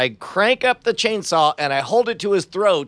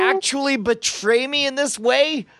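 higher, incredulous hurt; wounded plea; 6 semitones higher than usual. Acted. Player asks if Justin would betray him, wounded. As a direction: ask it as a betrayed friend.

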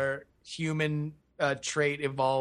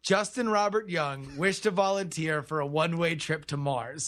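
formal declaration read aloud; mock-solemn contract reading; 2 semitones higher than usual. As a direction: read it out like a binding legal vow. Reads a paid joke ad aloud.

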